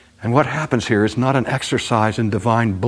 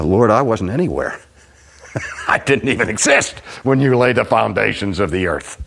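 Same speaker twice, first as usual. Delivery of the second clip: Job humbled; 2 semitones higher than usual. Acted. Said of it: "the answer that's in Job's mind".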